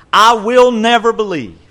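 defiant refusal. Retold or imitated. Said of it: "Thomas says".

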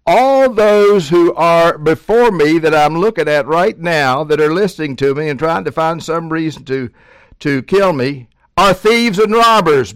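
loud, high preaching as Jesus; forceful preaching. Acted. Preacher voicing Jesus to the Pharisees, loud and high.

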